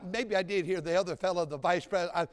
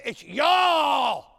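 mock Southern y'all; 5 semitones higher, 7 dB louder than usual. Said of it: "They say".

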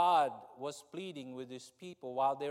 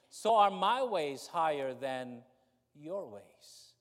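slow solemn scripture reading; 3 dB louder than usual. Acted. Reading scripture slowly, softly.

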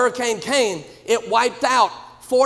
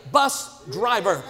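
slow shouted answer; proud shouted answer; 4 semitones lower, slower than usual. Retold or imitated. Church member proudly answering the preacher, shouted answer. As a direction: call it out proudly.

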